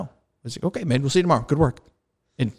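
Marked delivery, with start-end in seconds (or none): 0.6-1.8 higher, breezy sign-off; gentle, casual debriefer. Retold or imitated. Instructor dismisses pilot after debrief, gentle and casual. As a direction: imitate an easygoing instructor saying goodbye. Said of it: "real gentle, real casual".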